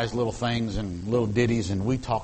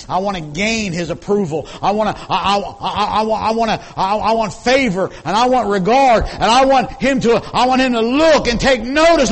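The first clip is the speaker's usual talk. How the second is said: rising to a loud, high shout; building cry; 9 semitones higher, 11 dB louder than usual. Acted. Preacher crying out Paul's longing to the church. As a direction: climb from plea to full cry.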